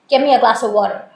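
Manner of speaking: quick, clipped-off order with a falling end; blunt direct command. Shown as a demonstration. Teacher demonstrating to OET students a dominating command. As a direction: bark it out like a bossy demand. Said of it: "It sounds a little dominating".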